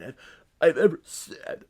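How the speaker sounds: strained, heaving mock-dramatic delivery; milk it as if about to puke; Peter Berg overacting. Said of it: "His delivery sounded like he was holding back vomit".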